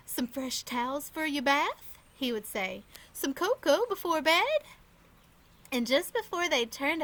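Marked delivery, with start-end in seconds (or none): 0.1-4.6 put-on Irish accent. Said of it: "an Irish accent that made everything he said sound like a jolly song".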